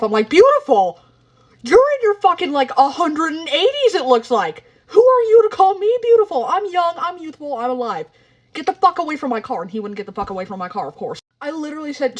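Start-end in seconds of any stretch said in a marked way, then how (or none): 0.3-9.6 indignant yell. Retold or imitated. Telling off old man.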